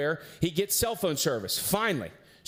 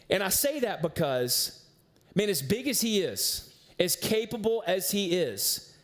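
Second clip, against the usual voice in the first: earnest sermon build with dramatic pauses; preaching. Acted. Pastor warning the church that isolation is dangerous, earnest preaching. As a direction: drive the point home to the congregation.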